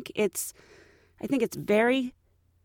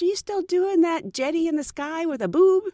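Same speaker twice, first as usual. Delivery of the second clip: high-pitched colleague imitation; put-on friendly inquiry; imitated chirpy question; 7 semitones higher than usual. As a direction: ask it brightly, pitched up high.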